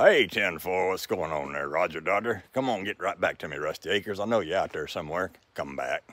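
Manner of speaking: lightly voiced trucker on the CB, low; mock CB call to a buddy; CB radio chatter. Man imitating a CB call to Rusty, lightly played. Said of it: "we can chitter chatter on the radio".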